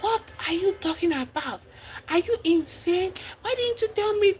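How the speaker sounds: high outraged questions, voice pushed up; angry. Retold or imitated. K confronting her friend over the hidden price, high outrage. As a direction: demand answers, shocked and furious. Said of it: "K was so angry".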